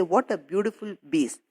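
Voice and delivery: put-on mild foreign accent, piece said as "biece"; accented English. Teacher imitating the shoemaker admiring leather. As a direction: say "What a beautiful piece," with a b sound for p. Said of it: "it is actually his way of speaking".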